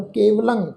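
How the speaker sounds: ਕੇਵਲੰ with a nasal ending; nasal pronunciation. Shown as a demonstration. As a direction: end ਕੇਵਲੰ on a nasal -ang. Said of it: "ਟਿੱਪੀ ਦੀ ਮਾਤਰਾ ਦਾ ਨਾਸਕੀ".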